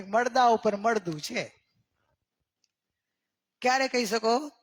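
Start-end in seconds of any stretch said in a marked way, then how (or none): 0.0-1.6 slow, measured, words spaced; unhurried, each word set apart; slow pointed line. Shown as a demonstration. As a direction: deliver it slowly as a lesson. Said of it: "આપણે એમ કે".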